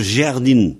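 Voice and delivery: jardin said as jerdin with an open E; jardin, A turned to E: jer-din; local pronunciation. Shown as a demonstration. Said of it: "chez moi on prononce".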